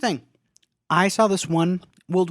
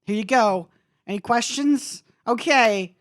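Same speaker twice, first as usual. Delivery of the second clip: higher, louder, rushed stammering; flustered pharmacist; 5 semitones higher, 4 dB louder than usual. Retold or imitated. Pharmacist flustered by a cute customer, nervous and high. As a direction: fumble through the counter routine, flustered. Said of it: "And I'm just like".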